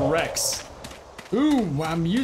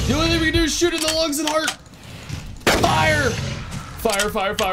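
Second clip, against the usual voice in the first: urgent shouting; 10 semitones higher, 4 dB louder than usual. Real, not acted. Shouting orders during attack.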